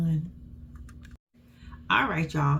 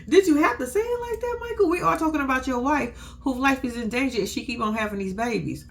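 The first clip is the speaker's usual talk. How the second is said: laughing disbelief; 4 semitones higher than usual. Retold or imitated. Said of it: "I said".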